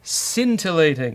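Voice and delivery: slow, mock Irish accent, barely there; a clumsy Irish accent, played for a laugh; terrible Irish accent. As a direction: have a go at an Irish lilt and miss. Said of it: "my terrible Irish accent".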